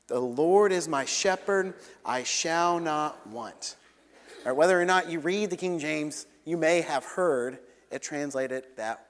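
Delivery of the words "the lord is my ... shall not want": very slow, measured unison reading; slow congregational recitation. Shown as a demonstration. Preacher leading the congregation in the psalm, slow call to recite. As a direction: lead the room through it word by word. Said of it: "Will you say that with me?".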